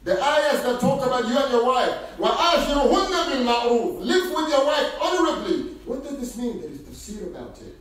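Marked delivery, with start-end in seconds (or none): 2.2-4.0 quick Quran recitation. Acted.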